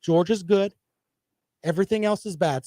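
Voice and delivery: mock talking point. Shown as a demonstration. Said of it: "Go ahead and say it".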